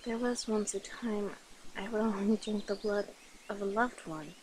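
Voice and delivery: soft, intimate murmur; tender confession. Acted. Vampire confessing affection to a new love, tender and hushed. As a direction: quietly confide with affection.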